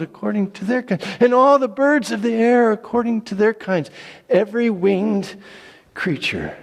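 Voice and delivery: loud, high, full-throated narration; dramatic loud reading. A narrator's reading. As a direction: read the flood bursting forth with all your force. Animals entering ark, loud.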